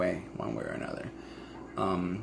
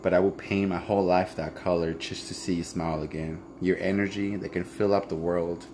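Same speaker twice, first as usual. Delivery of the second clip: reading a letter; 2 semitones lower than usual. Acted. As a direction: read it like a private love letter. Reads her letter aloud.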